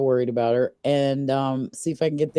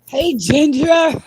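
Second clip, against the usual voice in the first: high playful greeting; 12 semitones higher, 8 dB louder, slower than usual. Real, not acted. Greeting a friend joining the call.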